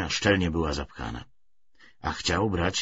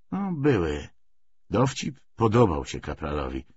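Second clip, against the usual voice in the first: usual speaking voice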